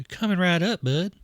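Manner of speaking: lightly voiced friendly grill dad; corrected character voice. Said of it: "That's the wrong voice".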